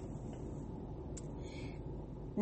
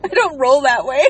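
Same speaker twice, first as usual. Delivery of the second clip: stifled giggles; 3 semitones higher, 4 dB louder than usual. Real, not acted. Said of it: "I'm trying not to laugh".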